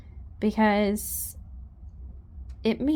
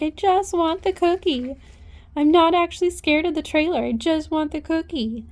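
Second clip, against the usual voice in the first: higher, light horse voice; voicing the horse; 5 semitones higher than usual. A hint of the mare's voice, higher. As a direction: speak for the mare, higher. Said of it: "She's like".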